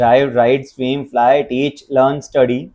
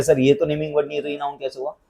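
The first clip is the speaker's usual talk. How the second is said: confused student; 2 semitones lower, 8 dB quieter, faster than usual. Retold or imitated. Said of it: "इसमें भी बहुत सारे doubts आएंगे".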